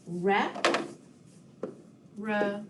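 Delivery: "Rep", "re" as separate beats with long pauses; syllable by syllable. Shown as a demonstration. Teacher recounting syllables with pupils, "Rep", "re" spaced apart. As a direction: sound out "Rep" then "re", each alone. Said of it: "split the word representative into syllables".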